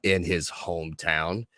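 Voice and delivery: measured podcast host introduction; show host intro. Acted. Host welcoming listeners and introducing the guest, show intro delivery. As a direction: introduce the guest with deliberate pacing.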